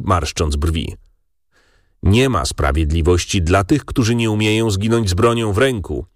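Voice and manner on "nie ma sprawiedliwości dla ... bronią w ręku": ordinary delivery, nothing marked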